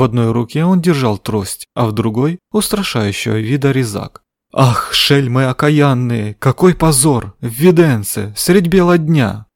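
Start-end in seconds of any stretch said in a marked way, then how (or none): 4.5-9.5 cursing. Acted. Fat man curses the thieves.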